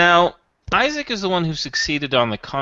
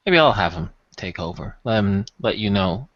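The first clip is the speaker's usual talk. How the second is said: measured and careful, picking words; lightly played smooth buyer; discreet customer; 3 semitones lower than usual.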